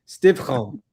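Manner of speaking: put-on Stifholm with throaty ch in old Jewish accent; old Jewish man accent, Stifholm as Stivchom. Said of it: "I'm throwing in the old man Jewish accent".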